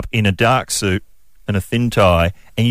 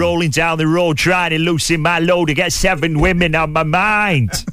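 Impression of a performance poet; 5 semitones higher than usual. Shown as a demonstration. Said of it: "Give us a demo".

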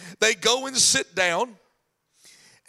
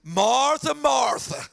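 sarcastic sigh; 4 semitones higher, much slower than usual. Retold or imitated. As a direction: call her with a sarcastic frown. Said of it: "that little sarcastic frown you get".

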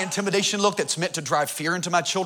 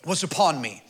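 scripture reading. Acted. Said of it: "It says".

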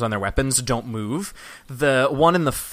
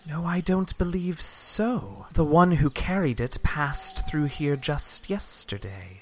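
guard voice; 4 semitones higher, much slower than usual. Acted. Guard leader doubts their story.

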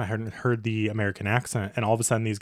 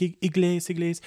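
halting Spanish; 8 semitones higher than usual. Retold or imitated. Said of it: "I was like".

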